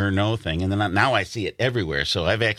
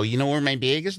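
higher Wisconsin question, "bag" as "beg"; Wisconsin accent; 4 semitones higher than usual. Retold or imitated. Newcomer asking in Los Angeles, Wisconsin accent. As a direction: ask with a raised Wisconsin vowel. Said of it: "We say bag".

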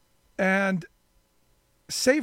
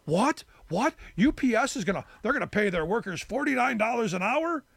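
lightly imitated disbelief, rising questions; mock freak-out; 3 semitones higher than usual. People reacting to the UPS pay deal, mildly mock-incredulous. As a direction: mimic people balking at the news. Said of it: "people were freaking out going".

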